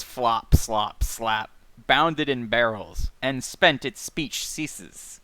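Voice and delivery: rhythmic, alliterative poetry reading; literary read-aloud. Acted. Podcaster reading slam-like prose aloud, rhythmic literary recitation. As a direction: lean into the rhythm, dropping away at phrase ends. Reads novel passage aloud.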